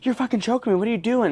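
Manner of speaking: high-pitched imitation of a frightened accusation; alarmed son. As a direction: act out waking up choked, high and protesting. Retelling son accusing his mother.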